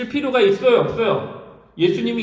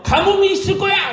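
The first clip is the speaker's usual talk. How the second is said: higher, laughing proclamation of drought; bold declaration; 11 semitones higher, 3 dB louder than usual. Acted. Elijah before the king, boldly proclaiming drought, higher and laughing.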